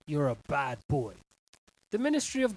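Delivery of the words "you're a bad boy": mock scolding.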